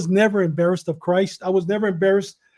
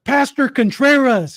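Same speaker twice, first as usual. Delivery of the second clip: drawn-out, higher-pitched call-out; retold yell; 5 semitones higher, 4 dB louder than usual. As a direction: imitate a man yelling out a name. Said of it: "all of a sudden yells out".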